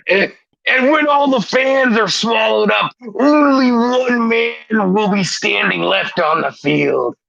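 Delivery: lightly voiced wrestling promo, brother; a hint of Hulk Hogan hyping the crowd; Hulk Hogan style. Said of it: "Hulk Hogan style".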